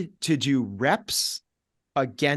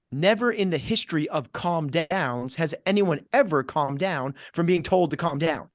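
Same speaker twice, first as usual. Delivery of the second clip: ordinary talk, nothing marked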